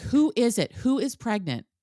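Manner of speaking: high, loud, drawn-out scream. Recapping a show scene, retelling a cast member's scream: imitating Demi screaming. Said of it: "Demi is just screaming".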